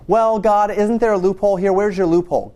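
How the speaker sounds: mock believer angling for a way out; wheedling plea. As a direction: beg God sweetly for an exception. Mocking believer seeking loophole.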